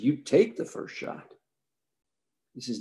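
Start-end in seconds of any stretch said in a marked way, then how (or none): 0.0-1.3 put-on slow, light Texas accent; Texas drawl. Johnson telling Israel to take the first shot, slow Texan. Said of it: "with his Johnson City, Texas accent".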